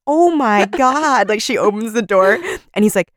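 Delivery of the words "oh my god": a slow, stunned "oh my God". Retold or imitated. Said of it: "she's just like".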